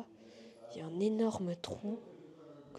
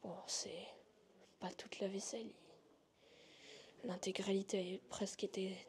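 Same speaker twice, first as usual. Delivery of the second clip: nervous night vlog whisper. Real, not acted. Showing dishes, whispering.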